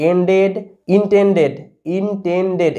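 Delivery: এন্ডেড, ইনটেন্ডেড with a full final "-ded". Shown as a demonstration. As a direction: model each word separately, ending ইনটেন্ডেড in a clear "ded". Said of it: "ইডির উচ্চারণ এডের মতো". (এন্ডেড, ইনটেন্ডেড: শেষে পুরো এড উচ্চারণ)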